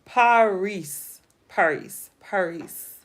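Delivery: Paris said the American way, the S sounded, falling; Paris with a clear final S; practising French Paris. Shown as a demonstration. Streamer to chat, practising Paris the English way. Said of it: "Ooh, I like that".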